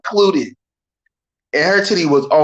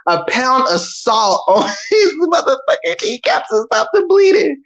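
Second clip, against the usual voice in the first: higher, laughing through the words; can't stop laughing at the gore; laughing high while describing it; 8 semitones higher than usual. Real, not acted. Laughing while telling gory scene.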